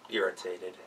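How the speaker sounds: ordinary delivery, nothing marked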